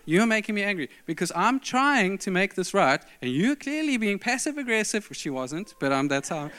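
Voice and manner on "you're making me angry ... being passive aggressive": exasperated accusation. Retold or imitated. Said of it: "I said this to her".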